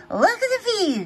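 high, amazed "Look at the view"; gasped. Acted. Teacher showing the children the view, amazed and high. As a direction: breathe it out in wonder, pitched high. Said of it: "gasped Madame Gazelle".

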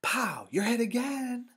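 loud, high playground war-game yelling; boy's yell. A narrator's reading. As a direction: pretend gunshot and high shouted call. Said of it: "Asher yelled from behind the tree".

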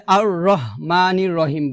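আর রহমানির রহিম with plain, short h; quick রহমানির with everyday Bengali h; mistaken soft ha. Shown as a demonstration. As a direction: demonstrate the error, no throat air in রহমানির. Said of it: "যে ভুলটা করি সেটা হচ্ছে".

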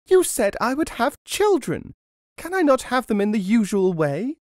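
very high, loud protest; screeched. A narrator's reading. Wife challenging the old woman's promise, screeching. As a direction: screech in indignant disbelief. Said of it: "she screeched".

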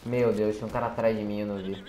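startled. Real, not acted. Enemy suddenly behind him.

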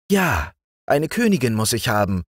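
the frog prince, eager about his plan; a pompous little frog king-to-be. Acted.

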